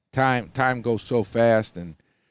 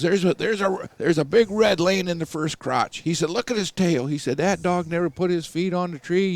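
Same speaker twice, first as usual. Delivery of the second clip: excited retelling; 8 semitones higher than usual. Retold or imitated. Laddie spots the squirrel.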